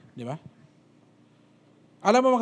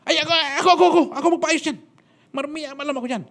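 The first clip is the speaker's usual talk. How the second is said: much higher, quick, laughing; eager laughing offer; 10 semitones higher, 3 dB louder, faster than usual. Retold or imitated. Cousin laughingly volunteers to fix the gun, much higher.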